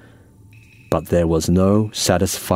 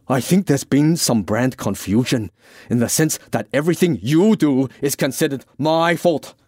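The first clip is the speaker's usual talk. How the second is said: higher, a touch of grievance; lightly voiced aggrieved Francis; 6 semitones higher than usual. Francis blames the Irishman for confusion, mildly aggrieved. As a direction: lay out the complaint, mildly aggrieved.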